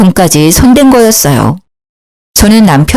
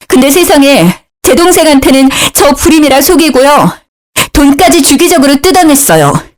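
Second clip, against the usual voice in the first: higher, upset wife pouring out her grievances; upset outburst; 6 semitones higher than usual. A narrator's reading. Wife telling her in-laws about the husband's lies, in a high, upset voice. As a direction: lay out the betrayal, voice high with hurt. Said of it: "화가 나서 울부짖었죠".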